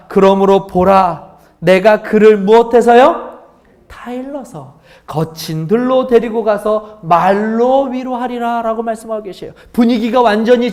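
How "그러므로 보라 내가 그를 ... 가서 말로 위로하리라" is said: slow, weighty reading of the verse; solemn scripture reading. Shown as a demonstration. Pastor reads scripture slowly and solemnly to the congregation. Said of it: "이렇게 말씀하십니다".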